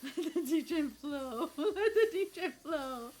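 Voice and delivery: words squeezed out through giggles; laughing. Real, not acted. Streamer cracking up at her own DJ joke, laughing. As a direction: laugh your way through the line.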